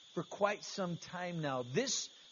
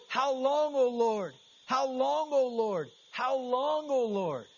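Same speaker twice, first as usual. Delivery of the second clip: louder, higher pleading on each How long; emphatic repetition; 3 semitones higher, 4 dB louder, slower than usual. Shown as a demonstration. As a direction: press each "How long" up and out, three times over. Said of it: "its purpose is to add emphasis".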